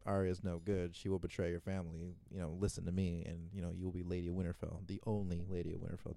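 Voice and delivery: softly voiced scheming counsel; imitated whispering. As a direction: quietly mimic someone murmuring into an ear. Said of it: "whispering in her ear".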